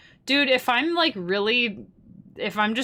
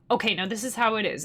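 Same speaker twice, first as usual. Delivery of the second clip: teacher voice. Shown as a demonstration. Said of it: "teacher voice".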